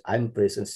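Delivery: "present" as PREH-sens; adjective pronunciation. Shown as a demonstration. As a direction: say "present" with its first syllable as eh. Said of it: "means adjective".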